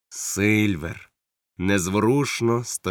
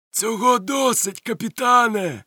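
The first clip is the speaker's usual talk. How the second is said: high, slow jovial answer; cheerful reply; 14 semitones higher, 4 dB louder than usual. Acted. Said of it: "весело відгукнувся".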